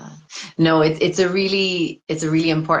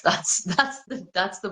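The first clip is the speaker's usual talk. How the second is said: laughing through the words; chuckling while speaking; 4 semitones higher, 4 dB quieter than usual. Real, not acted. Laughing at own joke.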